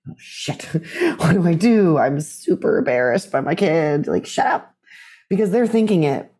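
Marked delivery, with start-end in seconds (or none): 0.1-4.1 mock mortified parent. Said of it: "most parents are mortified". 4.1-4.8 whispered hush. Retold or imitated. Imagined parent hissing at kid.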